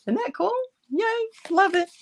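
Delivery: high, delighted squeal; excited. Real, not acted. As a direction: gush over the finished card. Delighted with finished card.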